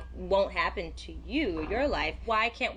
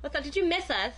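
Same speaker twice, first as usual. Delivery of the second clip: talking with a mouthful of food; words muffled by a bite of food; mouth full; 5 semitones higher, faster than usual. Real, not acted. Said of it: "Don't talk with food in your mouth".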